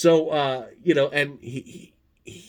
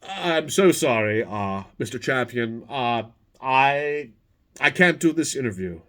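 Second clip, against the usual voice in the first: James Lipton. Retold or imitated. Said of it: "And he's like".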